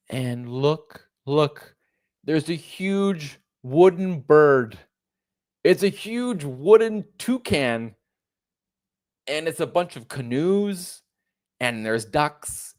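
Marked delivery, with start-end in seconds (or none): 0.1-11.0 higher and louder, gushing sarcastically over the bird; mock wonder. Mocking the Vancouver traveller, a gushing sarcastic wonder. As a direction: coo over it like a wide-eyed tourist.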